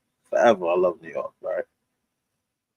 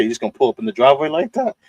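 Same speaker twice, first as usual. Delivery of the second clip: fast, higher retold question; incredulous friend; 4 semitones higher, faster than usual. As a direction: imitate a baffled friend, rising at the end. Friend's disbelief voiced in story.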